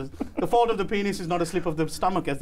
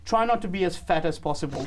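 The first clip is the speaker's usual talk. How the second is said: blurted slip. Retold or imitated. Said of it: "'cause he was rushing to get it out".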